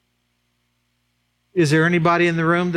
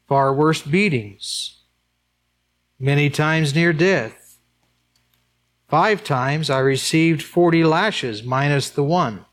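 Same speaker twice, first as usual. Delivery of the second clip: slow, weighty reading of the list; scripture reading; slower than usual. Acted. Preacher reads Paul's sufferings aloud to the congregation, slow and grave. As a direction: let each hardship land slowly.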